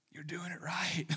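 soft voiceless reassurance; hushed reassurance to a struggling leader; whisper. Retold or imitated. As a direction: whisper it like a secret encouragement. Encouraging a flustered leader.

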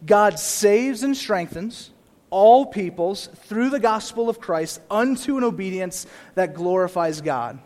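slow, deliberate scripture read. Shown as a demonstration. Preacher rereading his summary slowly to the church. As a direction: read it slowly, weighing each word. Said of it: "let me read that one more time".

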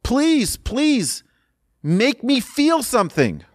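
imitated crying plea, very high pitch; tearful pleading. Man crying to the Rebbe to feel something, tearful pleading. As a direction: act out begging through tears, without real sobs. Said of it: "he starts crying".

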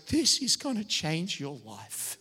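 slow and ominous, heavy on this; a weary dad's dark warning; grim tired dad. Retold or imitated. Dad warning the new father, slow and ominous. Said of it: "looks me in the eye and goes".

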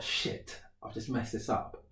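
hushed whisper to himself; whispered panic. Retold or imitated. Caught out while faking blindness, whispered. Inner thought after a slip.

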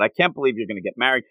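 fast, low, understated panic; rushed mock disbelief; retold freak-out. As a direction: rattle it off as a mild imitation of freaking out. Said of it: "he's freaking out".

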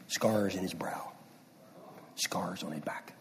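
slow, fading into a whisper; hushed whisper. Retold or imitated. Father retelling the Lord's words, slow fading whisper. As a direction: let the last scars sink to a breath.

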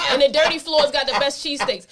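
laughing. Real, not acted. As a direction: laugh out the words. Laughing while describing cheesesteaks.

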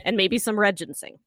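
scripted, punchy show introduction with playful asides; lively scripted host narration; podcast intro read. Acted. Reads scripted podcast episode introduction.

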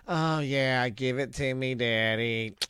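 hammed-up moaning porn voice; overacted breathy porn lines; bad porn acting. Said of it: "they're acting just, they just can't even act".

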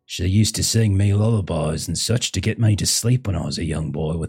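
lightly voiced fond son; reminiscing son. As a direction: reminisce in character about mum's lullabies. Hollis keeps reminiscing in character.

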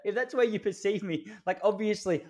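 high, laughing indignation; laughing disbelief. Retold or imitated. Man mocking being called racist, high and laughing. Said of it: "You go".

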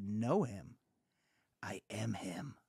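low, hushed Italian-tinged ghost reveal; spooky whisper. Retold or imitated. Ghost answering George, a low whispered reveal. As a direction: breathe it out like a ghost unmasking.

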